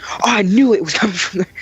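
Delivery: high-pitched retold exclamation; imitated supervisor exclaiming. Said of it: "she goes".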